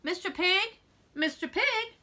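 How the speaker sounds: high, slow drawn-out call at the door. Retold or imitated. Wolf calls at the brick house, high drawn-out call. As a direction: stretch the last question into a long call. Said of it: "I called".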